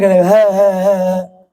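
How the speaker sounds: mock child's whimper, put on; hammed-up pretend sobbing; fake crying. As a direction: whine like a child faking tears. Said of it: "झूठा झूठा नाटक है".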